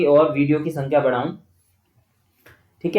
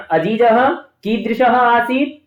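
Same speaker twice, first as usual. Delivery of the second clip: अजीजः कीदृशः आसीत asked slowly and higher, rising at the end; quiz question to class; 5 semitones higher, much slower than usual. Shown as a demonstration. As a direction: pose the question slowly to the pupils. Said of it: "तो बच्चे उत्तर देंगे".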